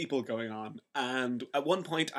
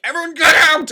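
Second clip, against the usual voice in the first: high, loud order to clear the flat; fed-up flatmate yelling the crowd out, high and loud; retold shout; 13 semitones higher, 14 dB louder than usual. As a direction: yell everyone out of the apartment. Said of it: "eventually I was like".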